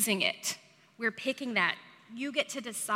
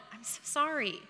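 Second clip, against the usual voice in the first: sympathetic response; 4 semitones higher, 4 dB quieter than usual. Retold or imitated. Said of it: "people respond with the".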